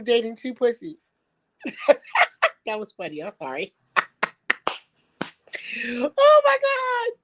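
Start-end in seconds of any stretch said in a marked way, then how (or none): 1.6-2.6 a squealing burst of laughter; high shrieking laugh. Real, not acted. Cracking up at the pussies joke, squealing laugh. 5.9-7.2 high, slow, drawn-out cry through laughter; laughing shout. Real, not acted. Overcome by the pussies joke, a high laughing wail.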